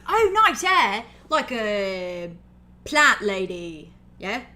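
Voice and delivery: bright loud friendly orc greeting; a big loud delighted compliment; booming cheerful orc compliment; cheery orc. Acted.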